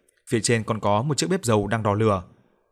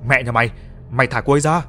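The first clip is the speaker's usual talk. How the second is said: furious shout; 3 semitones higher, 4 dB louder than usual. Acted. Man curses the woman cutting his lover, furious yell. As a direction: scream at her to let go, raging.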